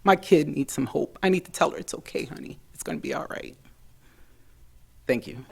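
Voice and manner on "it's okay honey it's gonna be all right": hushed words to a daughter; reassuring. Retold or imitated. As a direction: soothe a hurting child softly. Telling her daughter to be comforted.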